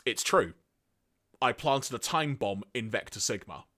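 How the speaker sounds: flat, level deadpan delivery. Retold or imitated. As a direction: state it with no emotion. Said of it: "Zarak then just deadpan responds with".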